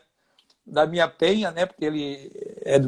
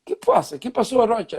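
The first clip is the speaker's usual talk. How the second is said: lightly imitated teammate, higher-pitched; Ivan Zamorano; 3 semitones higher than usual. Roommate answering him next morning, lightly imitated puzzled question. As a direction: raise the pitch a little for the puzzled teammate's reply.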